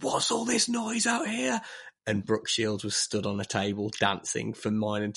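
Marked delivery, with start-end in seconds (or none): 0.0-1.6 high, slow mock telling-off; a lightly voiced annoyed boss; mock stern boss. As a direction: play the annoyed assistant director storming in. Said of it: "was like".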